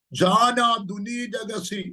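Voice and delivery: slow, drawn-out tongues syllables; speaking in tongues. Real, not acted. Prophet breaking into tongues mid-prophecy, slow and drawn out.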